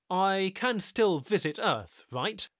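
lightly voiced eager man; Tyler voiced. A narrator's reading. Tyler asking the stranger about returning. Tyler pleading to stay connected.

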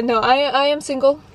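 normal talking voice

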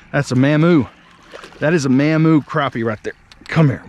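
loud, thrilled calling out over a big fish; excited. Real, not acted. Angler landing a big crappie, loud and thrilled. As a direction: celebrate the catch out loud.

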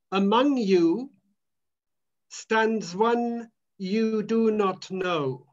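Among punched, then slow with a long pause before stands; slow, weighty quote. Shown as a demonstration. John the Baptist telling the gathered crowd, slow and weighty. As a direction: let Among hang, then draw out the rest slowly. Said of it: "He said that to the community".

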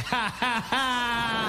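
mock black American laugh, slow and spaced; put-on "ha, ha, ha" in black American style. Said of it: "I was even laughing black".

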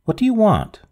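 put-on a young woman calling out to a tramp at the glass; called out. A narrator's reading. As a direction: call out sharply to the figure at the window. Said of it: "called out".

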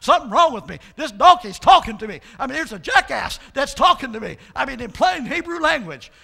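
Balaam startled by the donkey, loud; alarmed Balaam. Retold or imitated. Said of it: "I can imagine Balaam was going".

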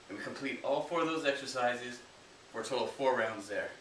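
winded after the workout; breathless coaching voice; out of breath. Real, not acted. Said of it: "I'm out of breath".

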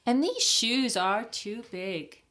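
put-on high, slow hen voice reading to children. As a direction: play the little hen, puzzled. Hen character voiced in story.

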